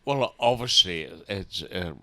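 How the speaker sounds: whistle on the s sounds; whistling s. Real, not acted. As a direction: dentures whistling on each s. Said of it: "sorry about the whistle".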